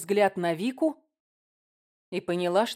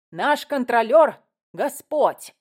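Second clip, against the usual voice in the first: loud, higher, weighty proclamation; acted roar; 4 semitones higher, 8 dB louder, slower than usual. A narrator's reading. Priest proclaims his only authority, roaring. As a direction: declare it slowly and forcefully. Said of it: "взревел батюшка".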